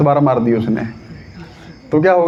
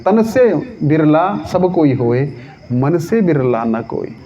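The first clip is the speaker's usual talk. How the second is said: slow, measured couplet; verse recitation; slower than usual. Acted. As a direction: draw out each half of the verse. दोहा दोहराते हैं. (दोहा पाठ, धीमे खींचकर)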